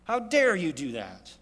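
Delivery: slow, drawn-out indignation; acted outrage. Man scolding a broken tool, slowly indignant. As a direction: stretch out the accusation in mock anger. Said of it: "fling it across the yard".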